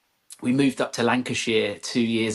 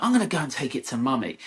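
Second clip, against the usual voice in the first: slightly higher imitation of a cross little boy; mock a frustrated son storming off; huffy child; 4 semitones higher, faster than usual. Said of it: "he snatched it off me and went".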